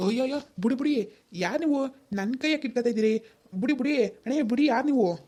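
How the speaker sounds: high-pitched, startled pleading to be released; alarmed protest. Acted. Boy grabbed by apparent stranger.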